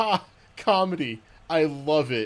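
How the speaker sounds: put-on very slow, loud, drawn-out child's yell. Retelling what a kid in the movie theater yelled: imitating a kid yelling out. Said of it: "the kid just yells out".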